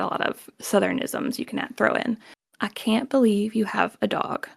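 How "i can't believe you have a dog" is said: neutral standard American, no regional accent; unaccented standard American delivery. Shown as a demonstration. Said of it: "no accent or, you know, standard American".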